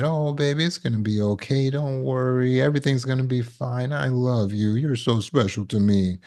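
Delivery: soft, soothing motherly voice; nurturing mother. Retold or imitated. Nurturing mother soothing her baby, softly. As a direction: comfort a child gently. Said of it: "nurturing mother who said".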